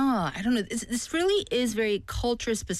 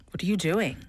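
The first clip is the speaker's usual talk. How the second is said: whispered scolding. Retold or imitated. Parent catching kids eating early.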